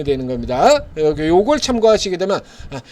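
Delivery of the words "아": slow, higher whiny complaint of a small investor; frustrated investor. Retold or imitated. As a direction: play the retail investor moaning that his stock won't rise. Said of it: "이런 소리는". (답답한 개미 투자자 흉내)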